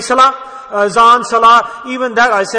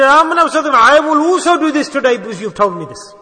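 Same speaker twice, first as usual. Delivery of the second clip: firm, raised voice of ready obedience; eager affirmation; 4 semitones higher, 3 dB louder than usual. Retold or imitated. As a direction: declare it with conviction. Companion's eager reply to the Prophet.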